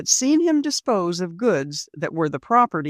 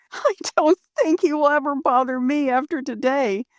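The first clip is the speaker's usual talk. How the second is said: Rose's voice; 8 semitones higher than usual. Acted. Rose voiced by narrator.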